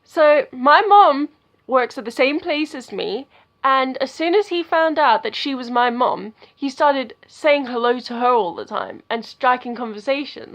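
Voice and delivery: excited loud telling. Real, not acted. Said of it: "sorry if I'm shouting".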